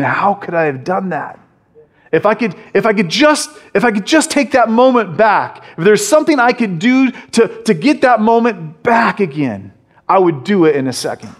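a touch of Peter begging to undo it; Peter's regret. Retold or imitated. Peter alone at night, mildly pleading to take it back.

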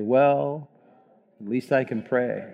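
slow, low, defeated, falling on pray. Shown as a demonstration. Congregation reading the title in a defeated voice. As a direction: say it like you've given up. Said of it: "slow, low voice, almost like a defeated voice".

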